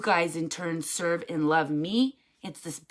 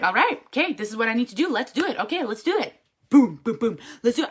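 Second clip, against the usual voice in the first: retold hype-up to herself; self pep talk; 4 semitones higher, faster than usual. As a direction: psych yourself up, boom boom boom. Retelling pumping herself up.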